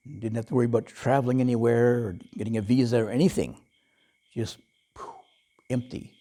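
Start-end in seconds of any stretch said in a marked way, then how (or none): 4.3-6.1 whispered, much softer poof; a soft whisper of emptiness; breathy poof. Acted. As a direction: blow the word away into nothing. Mind going empty.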